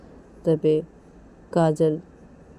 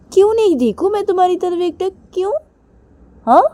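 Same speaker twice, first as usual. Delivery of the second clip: higher, louder challenging question; defiant Kajal; 10 dB louder, faster than usual. Acted. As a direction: dare her.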